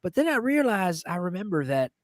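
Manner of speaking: lightly imitated storytelling uncle; Uncle Dickie. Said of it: "joke my Uncle Dickie told me".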